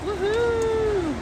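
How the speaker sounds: bright, high woohoo; a quick high cheer of delight; excited cheer. Real, not acted. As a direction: cheer like the pani puri just burst in your mouth. Cheering at pani puri burst.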